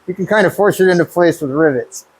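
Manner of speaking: talking around a drill bit in the mouth; mumbled with something held between the teeth; mouth full. Real, not acted. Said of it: "Sorry, I have a drill bit in my mouth".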